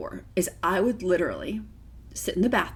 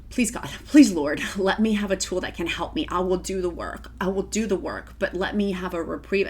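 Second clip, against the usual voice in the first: retold prayer. Recalling praying for help, a mildly acted plea. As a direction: pray it again as she once did, gently. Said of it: "I've been praying".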